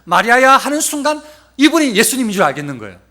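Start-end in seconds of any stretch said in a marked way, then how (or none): 0.0-0.5 sudden high, loud call; ringing, familiar summons by name; Jesus. Acted. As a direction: call her name out, lifting at the end. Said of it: "똑같은 음성이 갑자기 들리는데".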